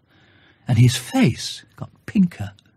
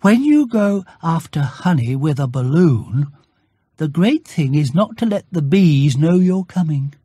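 higher cheerful bear voice; Pooh's greeting; 4 semitones higher than usual. Acted. Bear greets Christopher Robin at his door, higher and cheerful. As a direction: greet your friend brightly. Pooh explains plan.

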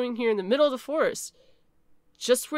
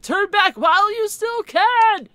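dire warning; 10 semitones higher, 10 dB louder, slower than usual. Acted. Gas station owner's warning.

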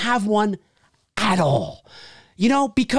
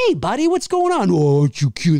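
talking to a pup; 3 semitones lower, 4 dB louder than usual. Retold or imitated. Talking to a dog.

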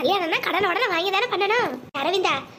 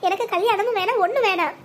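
acted crying plea, slightly raised; tearful refusal. Sister tells brother to call off her wedding, tearful. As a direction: refuse through a touch of sobbing. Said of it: "அடியே முள்ள அழாதடி".

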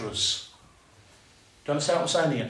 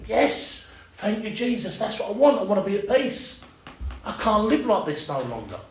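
retold joyful prayer; 6 semitones higher than usual.

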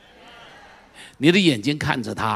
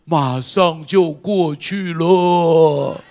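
God reassuring; 7 dB louder, much slower than usual. Retold or imitated. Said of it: "上帝在那里说".

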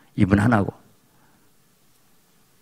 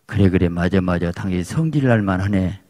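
soothing agreement; 4 semitones lower than usual. Shown as a demonstration. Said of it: "그러면 뭐라고?".

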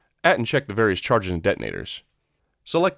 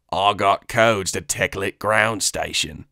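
bargaining alien, drawn out; Weequay voice; much slower than usual. Acted.

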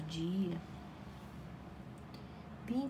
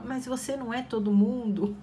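mom's reply; 3 semitones higher, 3 dB louder than usual. Retold or imitated. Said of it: "a gente falava pra nossa mãe".

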